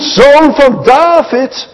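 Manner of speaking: high, slow, stretched cry; calling out. Acted. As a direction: call it out like a blind beggar. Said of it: "Dus als hij daar roept". (hoog en traag uitgeroepen)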